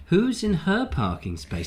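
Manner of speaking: "her" picked out with strong emphasis; stress on HER. Shown as a demonstration. Host re-reading the viewer's question, stress on "her". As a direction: lean hard on the word "her". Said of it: "Emphasis on the her".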